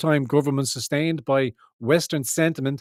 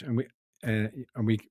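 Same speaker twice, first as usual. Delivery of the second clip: stumbling over words; stuttering; 5 dB quieter than usual. Real, not acted. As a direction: stammer through it. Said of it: "stop stuttering and muttering".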